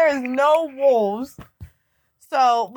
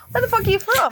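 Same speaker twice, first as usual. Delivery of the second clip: higher-pitched mock Australian accent; put-on Australian accent; 9 semitones higher than usual. Man at the bar questioning her, mock Australian accent. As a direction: quote him in a raised Australian voice. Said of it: "And he goes".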